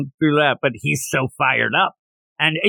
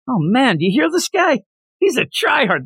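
high-pitched mock exasperation; imitating a jeering co-worker; mocking team-mate; 9 semitones higher than usual. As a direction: scoff at the try-hard, voice way up. Teammates mock the fired-up monster.

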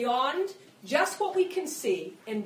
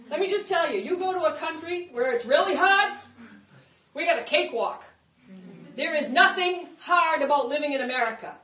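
forceful preaching; 3 semitones higher, 6 dB louder than usual. Real, not acted.

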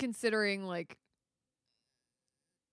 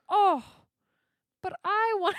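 loud whining villain complaint; whiny villain complaint; 9 semitones higher, 8 dB louder than usual. Retold or imitated. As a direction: wail it like a spoiled villain.

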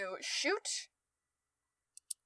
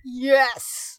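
excited shout; 4 semitones higher, 10 dB louder than usual. Real, not acted. Enemy killed, cheering.

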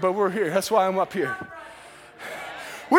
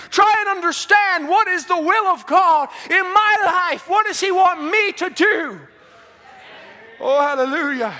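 fervent preaching; 2 semitones higher than usual. Acted. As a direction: preach it with full force. Preaching at full force.

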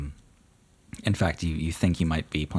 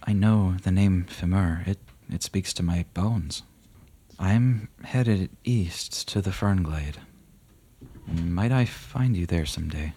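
solemn rider; 3 semitones higher than usual. Acted. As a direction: speak like a death knight blessing. GM voices Gaspard.

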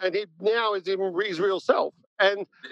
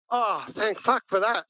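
drawn-out, higher sigh of relief; relieved outburst; 4 semitones higher, slower than usual. Retold or imitated. Friend answering his best mate's coming out, relieved. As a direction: retell your blunt relief, taking it slowly. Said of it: "really relieved for this".

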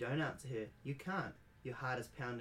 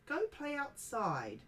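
high, slow granny voice; grandmother's urging; 13 semitones higher, much slower than usual. Acted. Grandmother sending grandchild outside, high and slow. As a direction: coax the kid outdoors, drawn out. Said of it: "she says".

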